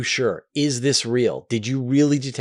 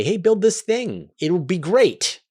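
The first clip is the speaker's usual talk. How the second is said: higher, slow, falsely friendly sales pitch; mock friendly pitch; 8 semitones higher, 4 dB louder, slower than usual. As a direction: sweet-talk them into building the doomsday machine. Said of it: "You just say".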